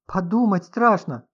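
loud, slow horrified cry. A narrator's reading. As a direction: dread the thought aloud. Writer horrified by thought. (в ужасе)

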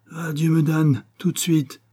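restrained narrator's version of an outburst; vociferating. A narrator's reading. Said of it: "vociféra l'insulaire".

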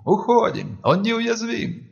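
high, slow cry of real fear; frightened shout. A narrator's reading. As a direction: shout the retreat in terror. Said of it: "В голосе кричавшей слышался неподдельный страх".

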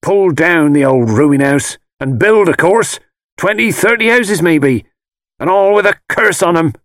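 high, loud, malicious crone; malicious old woman. A narrator's reading. Old woman foretells cursed houses, malicious crone voice. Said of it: "It was malicious, unpleasant laughter".

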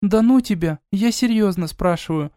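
lightly voiced sister, fed up; a hint of a huffy sister; exasperated sister. A narrator's reading. Eda exasperated.

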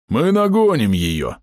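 slow, booming promise; confident half-orc. Acted. Half-orc promises the hero they'll catch her. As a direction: reassure while running.

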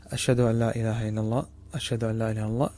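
softly recited testimony, voice held down; low voice demo. Shown as a demonstration. Teacher demonstrating the quiet first pair of the adhan, softly. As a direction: say the shahada under your breath. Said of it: "هذا بصوت منخفض".

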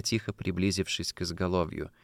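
plain reading voice

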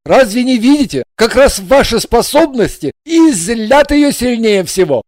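anxious husband. A narrator's reading. Husband pleading with the blonde to stop.

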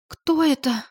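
испуганно, выше обычного; робко окликнуть мужа; дрожащим голосом. A narrator's reading. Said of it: "Дрожащим голосом она спросила". (испуганная Валюшка зовёт мужа, выше)

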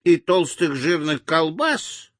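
high, slow toothless granny; sweet old lady. A narrator's reading. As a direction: mumble proudly like an old granny. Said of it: "прошамкала старушка беззубым ртом".

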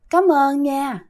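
mildly gentle, unhurried thank-you. Retold or imitated. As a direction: repeat the woman's thanks lightly and gently. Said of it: "bả cười rất nhẹ nhàng". (cảm ơn nhẹ nhàng)

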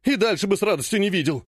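blurted high-pitched protest; hysterical outburst. Acted. Ogonkov hysterically denying knowing the nurse. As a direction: cry it out in a panic. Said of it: "истерично выкрикнул Огоньков".

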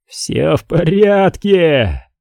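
высокий протяжный возглас; воскликни, сильно растягивая слова; восклицание. A narrator's reading. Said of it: "воскликнул Дантек". (протяжное восклицание без лишней громкости)

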